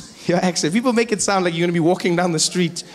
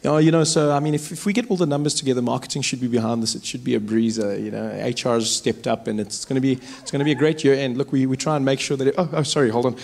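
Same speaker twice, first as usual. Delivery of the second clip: low-key, lower-pitched office talk; normal chat; 3 semitones lower than usual. Acted. Driver chatting business with friends in the car, normally. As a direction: chat casually about work in an understated voice. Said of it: "talking normally, sitting in the car".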